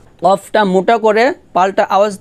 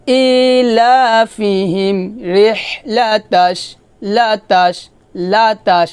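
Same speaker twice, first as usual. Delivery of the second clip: slow recitation; 2 semitones higher, much slower than usual. Shown as a demonstration. Recites the phrase.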